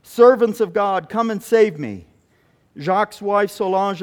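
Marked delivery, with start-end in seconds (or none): 0.0-2.1 louder, pleading call for help; insistent plea. Retold or imitated. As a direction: beg to be rescued, pressing harder. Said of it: "The voice from the hut got louder and more insistent".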